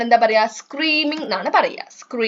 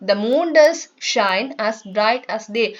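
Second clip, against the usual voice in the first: slow, sing-song nursery rhyme reading; poem recitation; much slower than usual. Shown as a demonstration. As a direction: recite the rhyme slowly for children. Rereading poem line.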